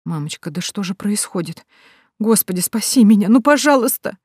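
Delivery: rising frightened plea; panicked prayer. Acted. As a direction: beg God in panic. Heroine wakes in a coffin, prays. (испуганная мольба)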